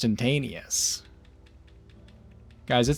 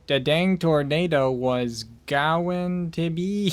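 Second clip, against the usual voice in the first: impression of Stags; slower than usual. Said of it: "Was that your impression of Stags?".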